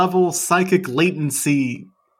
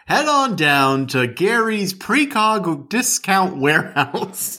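ad announcer voice; 4 semitones higher than usual. Pretend. Mock radio ad for precog warehouse.

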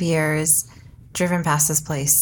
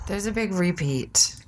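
soft unvoiced aside; whisper; 5 dB quieter than usual. Real, not acted. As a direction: whisper it like gossip. Whispered aside about regulars.

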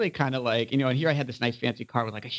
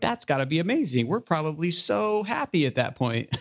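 higher-pitched dreamy enthusiasm; mock-excited, raised pitch; imagined delight; 6 semitones higher than usual. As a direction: gush as a naive younger self would. Imagined younger selves' reaction.

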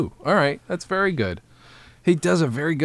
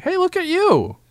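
smartwatch voice. Pretend. Voicing his smartwatch.

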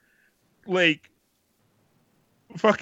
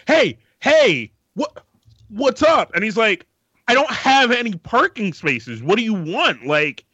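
louder, higher street call to the driver; 3 semitones higher, 3 dB louder than usual. Retold or imitated. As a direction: hail him across the street, then scold.

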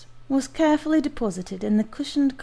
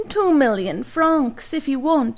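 shouted; 4 semitones higher, 4 dB louder than usual. Acted. Giant to the doctor who saved him, booming shout. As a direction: boom it out with joy. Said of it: "shouted the giant".

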